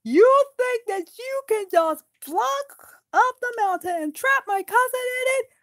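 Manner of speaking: high, loud furious dwarf; angry threat. Acted. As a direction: threaten to smash his head.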